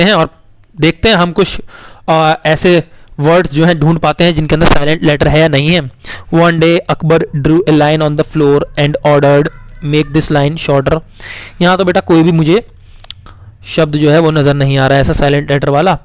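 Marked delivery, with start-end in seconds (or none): 6.3-11.0 put-on slow story reading to children. Teacher reading the Akbar story aloud to the class. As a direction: read it slowly and clearly.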